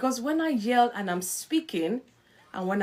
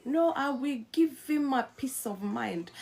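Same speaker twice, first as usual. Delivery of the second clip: mild mock indignation; with attitude; 3 semitones higher than usual. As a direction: act out a touch of attitude. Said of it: "You see me doing this attitude".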